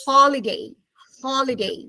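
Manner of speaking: holiday with open aw first vowel; model pronunciation. Shown as a demonstration. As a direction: say holiday clearly for repeating, falling. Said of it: "Say the word with me".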